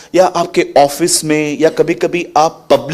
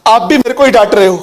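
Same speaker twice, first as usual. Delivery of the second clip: laughing protest; 6 semitones higher, faster than usual. Retold or imitated. Pastor laughing at sister-in-law.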